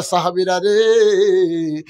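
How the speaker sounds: slow tearful wail, words stretched out; preacher's chanted imitation of crying; imitated weeping. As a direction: draw out the endings in a mock sob. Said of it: "কান্দে আর বলে".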